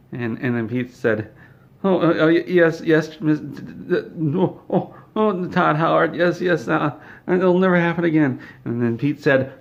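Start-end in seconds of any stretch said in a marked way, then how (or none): 1.8-8.4 high, stammering panic; flustered apology. Acted. Pete apologizes to Todd for the name, flustered and cowed. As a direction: trip over the words, scrambling to appease the boss.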